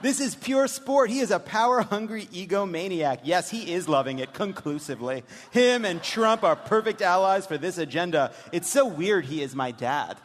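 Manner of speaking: mock-serious reading of a daughter's texts; deadpan daughter reading. Host reads the daughter's texts to a live audience, deadpan. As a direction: read it like a bored teen texting. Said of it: "when we do this dramatic reading".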